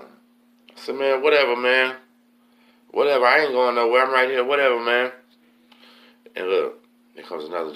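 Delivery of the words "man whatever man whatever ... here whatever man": high, loud retort; defiant yelling back. Retold or imitated. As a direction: holler back defiantly, reenacting the exchange. Yells back at the threats.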